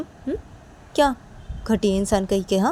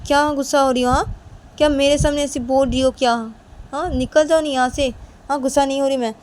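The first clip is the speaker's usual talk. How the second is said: high, loud indignant retort; angry denial; 4 semitones higher, 5 dB louder than usual. Acted. Denying anger and ordering the other out, angry. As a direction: snap back, denying any anger. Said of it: "तुम क्या गुस्सा हो रही हो".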